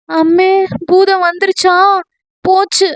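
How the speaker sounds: high, frightened yelp; panicked cry. Acted. Scared girl calling out that the monster has arrived. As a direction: cry out like the ghost has come. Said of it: "என்று அலறியவள்".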